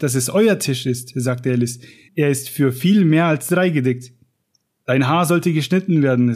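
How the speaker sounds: lively read-aloud of a storybook scene; story reading. Acted. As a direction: read it like a storyteller, giving each character a light voice. Reads Alice in Wonderland aloud.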